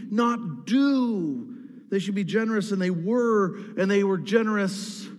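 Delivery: building sermon, pitch climbing on unified and together; preaching. Acted. Pastor urging the church about unity, preaching with growing force. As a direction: preach it, driving each they were.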